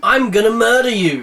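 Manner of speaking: loud, high furious scream; enraged threat shouted. Acted. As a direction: scream it over blaring music. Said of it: "he screamed".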